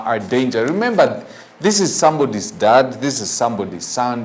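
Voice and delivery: usual speaking voice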